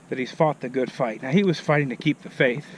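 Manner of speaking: breathless walking uphill; out of breath. Real, not acted. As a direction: speak winded from the hill. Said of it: "running out of breath here".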